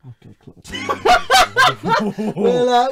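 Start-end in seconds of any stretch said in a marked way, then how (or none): 0.6-2.9 high, loud, talking through laughter; real laughing fit, voice pushed way up; helpless laughter. Real, not acted. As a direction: crack up while trying to move on. Host cracks up at caller's prank confession.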